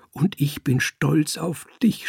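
mild tearful laugh, lightly voiced; a touch of sob breaking into a laugh; understated weepy-happy whisper, rising at the end; sobbing and laughing. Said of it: "schluchzte er und lachte zugleich".

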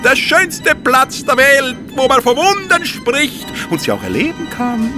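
high, hammed-up fairground barker; market crier. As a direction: call it out to the whole fair. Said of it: "schmetterte der Wurstel lauthals wie ein Marktschreier heraus".

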